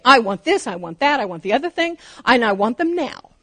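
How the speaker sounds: mock impatient list of demands; demanding. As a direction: rattle off wants like an impatient believer. Voicing a demanding prayer to God.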